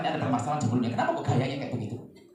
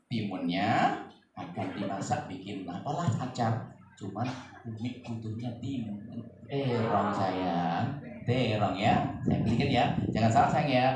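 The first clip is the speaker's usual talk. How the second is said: tender mother; 5 semitones lower, slower than usual. Shown as a demonstration. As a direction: gently correct the child. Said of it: "Kalau sang anak bilang". (ibu menenangkan anak dengan lembut)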